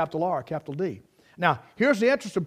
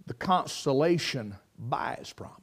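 soft unvoiced whisper; hushed preacher whisper; 6 semitones lower, 8 dB quieter than usual. Real, not acted. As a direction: drop to a hush on consolation. Sermon point whispered.

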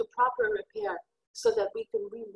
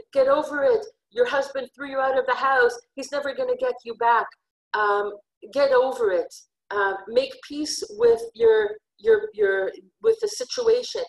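louder, scornful taunt; taunting nations; 6 dB louder than usual. Acted. The nations mocking the abandoned wife, loud and scornful. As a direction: jeer at her to give up. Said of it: "claims of the nations of the world telling the beloved".

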